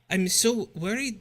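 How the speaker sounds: slow, light Irish lilt; worried line with an Irish lilt; Irish accent. Acted. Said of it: "it's gonna be Irish now".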